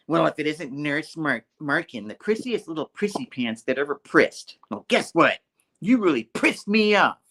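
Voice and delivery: mock angry taunt. Deranged Anna taunting the nurse, mock angry. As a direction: play an angry insult, rising on the punch.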